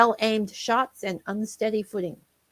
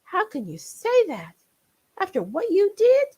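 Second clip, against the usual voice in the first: hurt quiver; 11 semitones higher than usual. Acted. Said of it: "His lip quivered".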